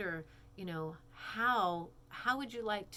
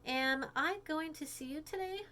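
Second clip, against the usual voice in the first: put-on high, eager girl voice; texting friend, high and eager; Claire voice; 8 semitones higher than usual. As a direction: ask it as Claire, high-pitched. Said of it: "Claire says to Peach".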